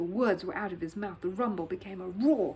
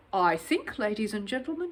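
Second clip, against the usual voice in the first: booming. Acted. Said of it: "he boomed".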